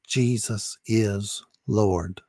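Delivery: a gentle, deliberate prompt to repeat; slow model phrase. Shown as a demonstration. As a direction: say it slowly so he can copy you. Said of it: "say it out loud".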